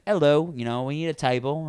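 imitating a kid's British accent. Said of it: "started doing a British accent".

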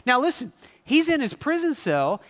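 ordinary talk

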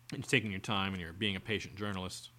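ordinary talk

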